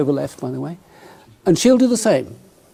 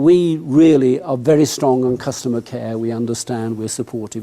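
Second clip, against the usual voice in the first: reassuring; 4 semitones lower than usual. Retold or imitated. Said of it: "He's saying".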